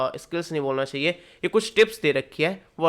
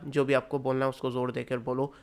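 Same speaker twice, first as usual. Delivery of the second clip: ज़ोर देकर बोलो said much softer, no punch on ज़ोर; softer alternative take; 2 semitones lower, 6 dB quieter than usual. Shown as a demonstration. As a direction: drop the volume and say it gently. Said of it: "और मैं ऐसे भी बोल सकता".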